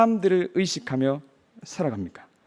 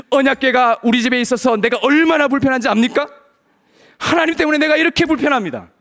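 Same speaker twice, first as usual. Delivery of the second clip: mock protest; 3 semitones higher than usual. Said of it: "이렇게 항변하는".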